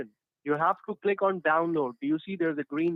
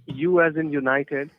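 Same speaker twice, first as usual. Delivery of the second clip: slow dictation; 4 dB louder, slower than usual. Real, not acted. Spelling letters phonetically.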